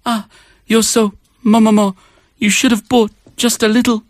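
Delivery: high, fast, pushy auntie scolding; loud pushy korean auntie. Acted. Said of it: "Sounds like a little old woman".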